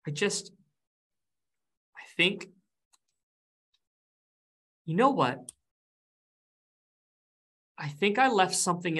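a hint of a fretful ghost; anxious ghost. Ghost NPC anxious, searching.

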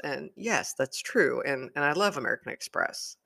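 talking while sipping coffee; words around a sip of coffee; drinking coffee. Real, not acted. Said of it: "Sorry, I'm drinking coffee".

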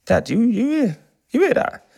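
high, hesitant re-enacted alarm; alarmed questioning. Son in car asks dad about banging, alarmed. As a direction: check nervously on a strange noise, pitched right up.

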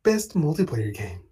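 lightly put-on award show host; white woman announcer voice. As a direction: read it like a polished announcer. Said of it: "my white woman, um, announcer voice".

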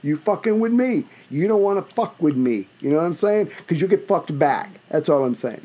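put-on tough talk in a Cantonese accent; menacing lines with a Cantonese accent. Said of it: "that was the Cantonese accent that I was using".

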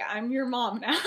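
bossy line breaking into a laugh; amused, loud mock parental order; laughing mock bossiness. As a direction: lay down the law while cracking up. Amused at her acted bossy Remus.

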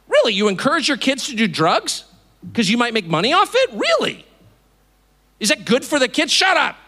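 acted indignant challenge; incredulous scolding. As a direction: confront a bad parent in disbelief. Plays accuser of bad parent.

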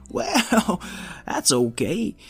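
put-on high, lively wise old robot; old rusty robot. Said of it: "I'm a wise old robot".

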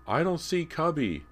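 put-on boy's high, loud call; shouting over noise. A narrator's reading. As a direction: call out over a roaring mower. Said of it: "James shouted over the noise".

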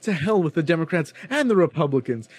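high, stammering, whiny mock student; flustered student impression. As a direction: play the rattled classmate groping for words, pitched high. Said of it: "He's like".

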